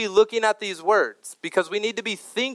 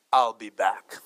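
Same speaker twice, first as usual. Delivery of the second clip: low, put-on German-accented robot-hero voice; Terminator; 8 semitones lower, slower than usual. Preacher quoting the film line he remembers from childhood, Terminator impression. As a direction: say it deep, like an action-film cyborg. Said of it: "that the Terminator says".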